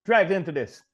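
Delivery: lecturing the hero about his parents, high mock voice; Lundgren speech impression. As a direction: ham it up like the unhinged sergeant. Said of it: "you know".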